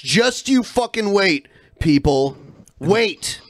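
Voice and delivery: slow, emphatic warning; forceful, drawn-out promise; aggressive hype. Real, not acted. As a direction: lean hard on each word. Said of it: "You sound very aggressive".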